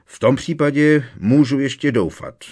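loud, high, spiteful glee; malicious. A narrator's reading. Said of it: "prohlásil zlomyslně strýc Vernon".

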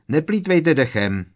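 snapped. A narrator's reading. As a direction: cut her short. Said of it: "okřikl ji Harry". (okřiknutí)

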